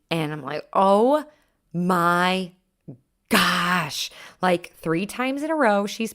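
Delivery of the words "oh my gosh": exasperated. Retold or imitated. Retells exasperation at dog peeing.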